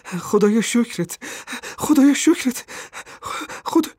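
a mother crying out her thanks; cry of relief. A narrator's reading. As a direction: shout thanks to God, climbing each time. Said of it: "فریاد کشید".

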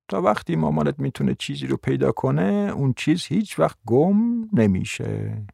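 hushed, voiced murmur; murmured in the ear. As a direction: murmur it gently, stretching the last words.

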